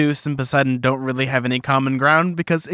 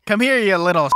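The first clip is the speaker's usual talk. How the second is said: mock-threatening mom, slightly raised pitch; bad mom; 5 semitones higher than usual. Podcaster mimicking co-host's mom scolding, mock threat. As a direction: play the bad mom going after the kid. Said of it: "bad mom almost?".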